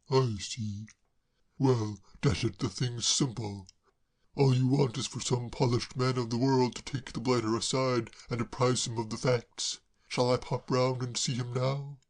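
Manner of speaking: a hint of a puzzled gentleman; mildly baffled; lightly voiced Braddock. Braddock puzzled by Claire, mildly baffled.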